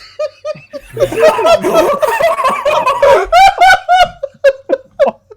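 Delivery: high shrieking burst of laughter; loud laughing shriek. Real, not acted. Friend shrieks with laughter at the dumb question. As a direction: let a real shriek of laughter out.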